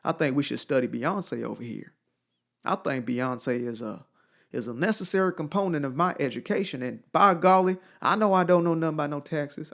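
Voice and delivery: hammed-up country Southern accent. Student pitching a class on a singer, in a Southern accent. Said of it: "a Southern accent".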